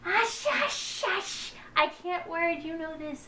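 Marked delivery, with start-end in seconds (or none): 0.0-1.5 high, soft playful shush; mock hushing. Real, not acted. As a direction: hush them teasingly. Shushing friend mid-banter.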